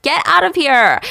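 high, loud order to leave; mock screaming. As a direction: scream at an intruder, hammed-up. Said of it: "Halam starts screaming at him".

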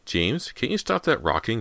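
high-pitched, exasperated demand. A narrator's reading. Big sister to rocking brother, demanding. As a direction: lift the voice and insist. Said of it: "Callie demanded".

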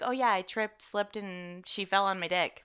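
mocking excuse. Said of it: "some dumb shit like".

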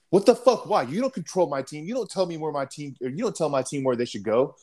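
high-pitched indignant yelling, hammed up; imitating an officer losing his temper; angry outburst. Lieutenant furiously scolding the team leader, mock angry yell. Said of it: "He's like".

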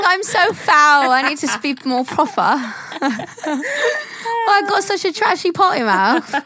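high, posh mock-proper whine, laughing through it; prim lady scolding herself, hammed up; mocking prissy voice. Mocking her co-host's fussy apology in a prim voice.

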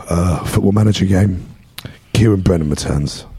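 lost voice, hoarse and rough; hoarse, worn-out speaking. Real, not acted. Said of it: "Nice voice".

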